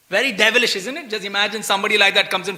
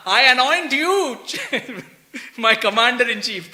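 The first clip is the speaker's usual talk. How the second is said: pompous decree; 3 semitones higher than usual. Retold or imitated. Duryodhan anoints Ashwatthama, mocked.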